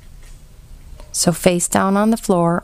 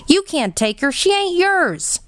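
desperate scream; 11 semitones higher than usual. A narrator's reading. Bryce cries out as father takes his sister, high and desperate. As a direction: hold on to her, pleading and furious. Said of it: "Bryce screamed".

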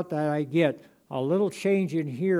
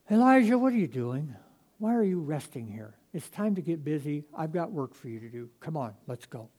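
still small voice. Acted. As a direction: coax him kindly out of the cave. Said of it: "And that's how he said it".

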